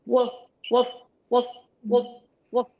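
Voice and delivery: clipped woof barks; dog barks. Shown as a demonstration. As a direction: bark from the belly. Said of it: "let's do a couple dog barks".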